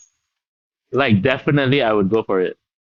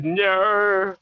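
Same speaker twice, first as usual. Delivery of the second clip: Kath and Kim no; 7 semitones higher than usual. Retold or imitated. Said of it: "it's the famous".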